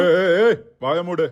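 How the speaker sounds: sharp loud ஏய் ஏய் ஏய், cutting her off; angry shout at the woman who came to apologise; shouting to shut her up. Acted. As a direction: yell her into silence. Husband shouts down visitor.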